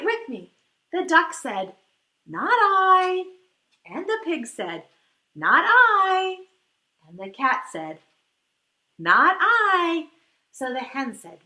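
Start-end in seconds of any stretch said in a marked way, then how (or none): 2.3-3.3 a loud, blunt "no" from the duck; loud refusal. Acted. Duck refusing to help the little red hen, loud blunt refusal. 5.3-6.5 a loud, blunt "no" from the duck; loud refusal. Acted. Duck refusing to help the little red hen, loud blunt refusal. 9.0-10.1 a loud, blunt "no" from the duck; loud refusal. Acted. Duck refusing to help the little red hen, loud blunt refusal.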